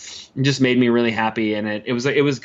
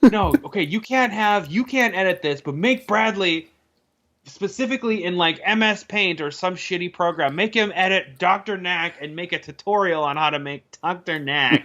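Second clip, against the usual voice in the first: excited bosses; 6 semitones higher than usual. Retold or imitated. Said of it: "they're like".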